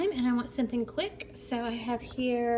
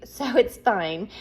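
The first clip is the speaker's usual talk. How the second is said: whispered laugh; 8 dB louder, slower than usual. Real, not acted. Laughing off carbs aside.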